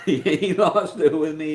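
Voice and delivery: He lost it with me, slowed and laughed through; laughing repeat. Real, not acted. Telling viewers about his angry lieutenant, laughing. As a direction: drag it out with a chuckle.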